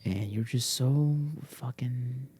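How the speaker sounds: exasperated whisper; hushed complaint to the dog. Real, not acted. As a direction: whisper the frustration through your teeth.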